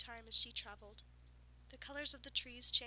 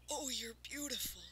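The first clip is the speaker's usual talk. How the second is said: breathless whisper of wonder; awed whisper. Acted. Farmer whispering in awe to the unicorn. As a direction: hush it out as if spellbound.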